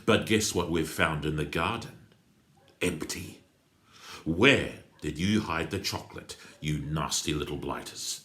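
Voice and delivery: taunting threat. Acted. Crook taunts the children.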